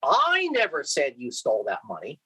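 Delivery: the word "I" lifted and leaned on; stress on I. Shown as a demonstration. Lecturer showing students emphasis on "I". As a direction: punch "I" as the one who didn't say it. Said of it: "depending on where I put the emphasis".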